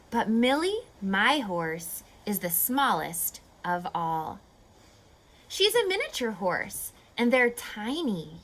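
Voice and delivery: lively storybook read-aloud; reading to children. Acted. Teacher reading a rhyming story to kids, lively. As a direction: read the rhymes to a class, bouncy and clear.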